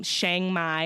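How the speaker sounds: Chiang with a short 'a' as in 'bang'; alternative pronunciation. Shown as a demonstration. Traveler clarifying a place name for listeners, alternative pronunciation. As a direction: say Chiang like 'shang', drawn out. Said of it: "if you don't know what I just said".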